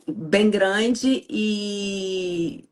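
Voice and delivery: slow, tearful catch on "bem grande e"; voice breaking. Real, not acted. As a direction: let the grief catch the words. Speaking of a recent grief. (voz embargada de choro)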